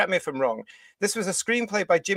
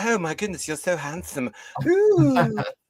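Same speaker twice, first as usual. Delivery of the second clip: mock, lustful, swooning put-on voice; 3 semitones higher than usual. Mimicking a horror film heroine greeting a demon, mock-lustful swooning. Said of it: "She's driven by a lust".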